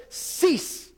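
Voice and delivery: a high, breathy whispered command; commanding Jesus. Retold or imitated. Jesus ordering the wind and waves, whispered command. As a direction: hush the storm with one word. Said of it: "He told the wind and the waves".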